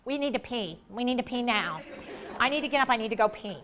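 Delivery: soft, insistent inner nagging; quiet, acted urgent pleading; hushed urgency. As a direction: mutter it like a nagging body signal. The limbic system's nagging voice.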